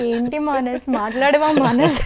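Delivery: a light mock-pleading quote of the line; imitating viral dialogue. Host quotes the famous dialogue again, lightly mock-pleading. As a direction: ask it like a half-hearted pout. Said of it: "అని".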